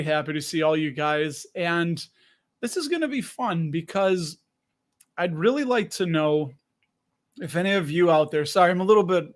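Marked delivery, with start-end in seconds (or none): 5.2-8.5 slightly out of breath. Real, not acted. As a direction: talk while still catching your breath. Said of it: "little bit out of breath".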